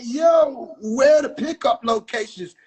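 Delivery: shouted yo, then asking; retold call-out. Shouting to a guy for the pickup spots. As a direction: call out across the room. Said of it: "I said".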